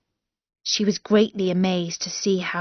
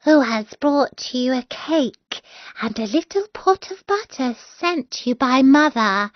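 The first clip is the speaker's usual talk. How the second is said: put-on wolf faking a girl's voice; 5 semitones higher than usual. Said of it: "faking her voice".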